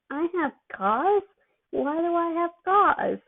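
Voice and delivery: high, slow, alarmed dopey question; voice jumping up. Acted. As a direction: let the voice leap up in drugged alarm. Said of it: "voice jumping up in, in octane".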